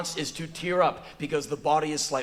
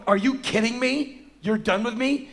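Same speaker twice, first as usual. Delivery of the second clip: high-pitched, raised disbelieving questions; incredulous outrage; 6 semitones higher, 4 dB louder than usual. Retold or imitated. Man dismissed by six-year-old, incredulous. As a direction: squawk in offended disbelief. Indignant man, retold quarrel.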